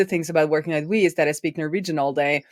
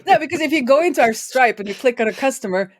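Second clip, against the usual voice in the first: laughing while talking; 8 semitones higher than usual. Real, not acted. Laughing while explaining Stripe IDs.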